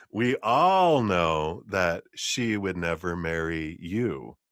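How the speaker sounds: slow, drawn-out line landing pointedly on "you"; stress on "you". Retold or imitated. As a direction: set "you" apart as the pointed final word. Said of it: "emphasizing you".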